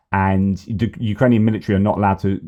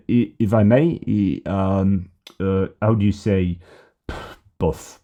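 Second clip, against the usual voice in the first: put-on French accent; slower than usual. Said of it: "to speak, uh, in, uh, the French accent".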